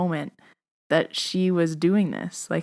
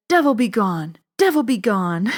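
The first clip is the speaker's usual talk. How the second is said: louder imitated Lebanese-accented incantation; Lebanese grandma accent; 3 semitones higher, 4 dB louder than usual. Grandma improvises words to flick pain away, imitated Lebanese accent. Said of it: "eighty-seven-year-old Lebanese, off the boat".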